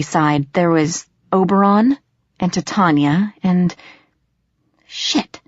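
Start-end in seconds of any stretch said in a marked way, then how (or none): 4.9-5.4 shocked whispered curse. A narrator's reading. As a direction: whisper it under the breath. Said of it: "I whispered".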